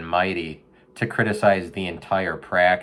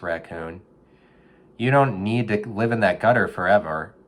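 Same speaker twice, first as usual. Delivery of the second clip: motivational speech to a raccoon; 3 semitones higher than usual. Retold or imitated. Urging a raccoon out of the gutter, hyped coach voice. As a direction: pump the raccoon up like a gym coach. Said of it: "I was like".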